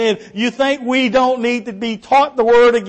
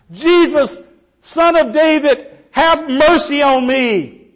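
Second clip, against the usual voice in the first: crying out; 5 semitones higher, slower than usual. Acted. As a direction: let the plea ring through the courtroom. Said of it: "Can you hear that echoing".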